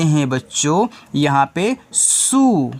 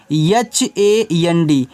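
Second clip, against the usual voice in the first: slow spelling out; much slower than usual. Shown as a demonstration. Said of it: "इसको पढ़ते हैं हैंड".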